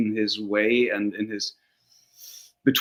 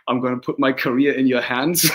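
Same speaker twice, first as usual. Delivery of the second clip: laughing quote; 4 dB louder than usual. Retold or imitated. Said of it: "and said".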